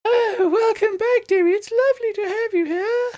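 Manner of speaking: very high, fluting matron voice; matronly heron. Acted. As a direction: welcome them like a gushing matron, high-pitched. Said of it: "and she goes".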